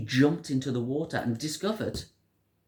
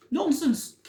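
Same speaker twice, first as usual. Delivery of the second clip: mild scolding; 4 dB louder than usual. A narrator's reading. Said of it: "Now the mother scolded".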